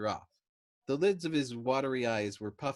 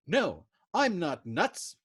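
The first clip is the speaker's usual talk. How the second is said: slow, higher, louder roar; furious roar; 7 semitones higher, 7 dB louder, much slower than usual. A narrator's reading. Dobbs roaring back at Yossarian, slow and loud. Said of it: "Dobbs roared furiously".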